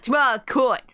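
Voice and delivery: "court" as "coit", Brooklyn style; mobster's Brooklyn accent, unraised pitch. Acted. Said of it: "Oh, Brooklyn like Meowth".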